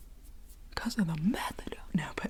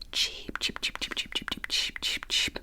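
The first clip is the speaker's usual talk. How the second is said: whispered chicken cheeps. Acted. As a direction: peep like a little chick, under the breath. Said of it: "Billy and Johnny make chicken noises".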